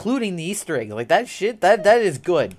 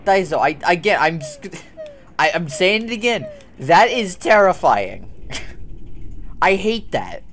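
nervous laughing; 5 semitones higher, 5 dB louder than usual. Real, not acted. Reacting to scare, laughing.

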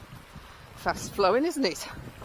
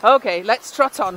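louder, higher, slowed urging; loud, slow command; 4 semitones higher, 11 dB louder than usual. Real, not acted. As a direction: call the horse on firmly. Urging horse on.

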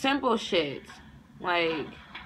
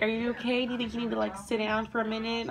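higher, lightly imitated concerned coach; 4 semitones higher, faster than usual. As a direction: check on her, voiced a little higher. Acts out the coach checking.

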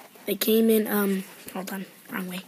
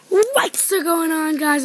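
slow, drawn-out hype greeting; excited intro; 3 semitones higher, much slower than usual. Shown as a demonstration. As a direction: greet like an eager host. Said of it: "Excited Face".

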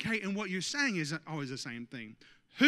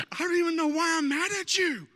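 high mock-wife voice; imitating his wife; 8 semitones higher, 5 dB louder than usual. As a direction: play the exasperated wife, light and teasing. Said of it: "she was just like".

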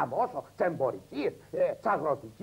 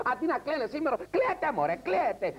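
put-on yelling at the kids; 10 semitones higher than usual. Mother on a TV show yelling at her kids to cry. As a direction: shout them into crying.

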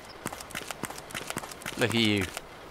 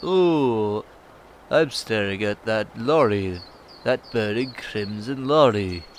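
put-on slow, drawn-out Scouse accent; Liverpool accent; 4 dB louder, slower than usual. Player voices John Harrison staring at a lorry, Scouse accent. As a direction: put on a pop-star-like Liverpool lilt, slowly. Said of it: "I gave him one of those accents".

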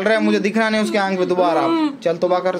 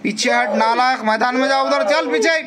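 commanding shout; 4 semitones higher than usual. Real, not acted. Exorcist commanding jinn back.

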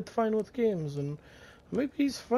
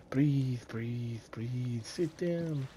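breathy soft whisper, softer; whispered soothing; 8 semitones lower, 7 dB quieter, much slower than usual. Acted. Interrogator coaxing prisoner to breathe, whispered. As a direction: hush him like a calming nurse.

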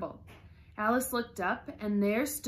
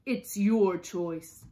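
shouting, then easing; 10 dB louder, slower than usual. A narrator's reading. The Queen gives the Duchess an ultimatum, shouting. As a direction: shout the ultimatum, drawing out each word. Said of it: "shouted the Queen".

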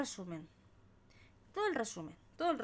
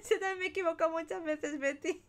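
high, loud, quick giggly admission; laughing; 8 semitones higher, 4 dB louder, faster than usual. Real, not acted. Streamer admits mistakes to Betty, laughing and high-pitched. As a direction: squeal it through laughter.

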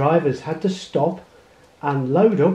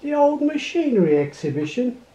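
higher, amused chuckle through the question; chuckling; 8 semitones higher, faster than usual. A narrator's reading. Man at the gate mocking the old tractor, chuckling. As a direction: tease the farmer with a laugh in it. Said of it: "the man chuckled".

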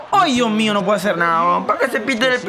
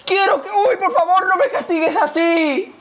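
súplica lastimera; 6 semitones higher, slower than usual. Real, not acted. Ruega a Dios por Brasil.

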